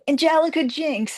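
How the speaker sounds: put-on high-pitched excited girl voice; imitated young girls. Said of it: "they started laughing".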